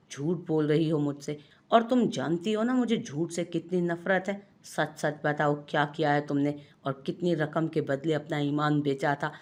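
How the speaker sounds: a touch of acted fury; mild acted anger from a suspicious husband; angry accusation. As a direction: confront her over the lie. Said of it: "गुस्से से बेकाबू होता".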